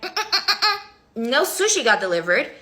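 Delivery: high mocking hums breaking into a laugh; laughing disbelief. Woman seeing her sushi marked delivered, laughing. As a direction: hum it like you can't believe it.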